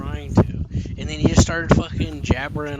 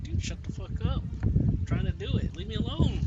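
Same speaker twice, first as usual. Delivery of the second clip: mock retort; 9 semitones higher, 6 dB quieter than usual. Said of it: "I'm like".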